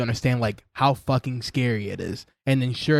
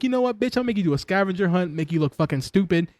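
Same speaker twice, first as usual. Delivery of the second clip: mock taunting villain; 6 semitones higher than usual. Voicing the Joker taunting Batgirl.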